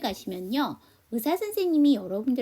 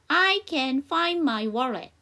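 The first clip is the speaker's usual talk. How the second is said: very slow, clear dialogue line for repeating; slow practice read; 3 semitones higher, 3 dB louder, much slower than usual. Shown as a demonstration. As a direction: spell it out slowly for the class. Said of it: "여기 저랑 같이 한번 연습해봐요". (천천히 또박또박 따라 읽기 시범)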